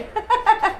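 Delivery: high-pitched chuckle; amused laugh. Real, not acted. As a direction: break into a short high laugh. Amused by the pet hiding.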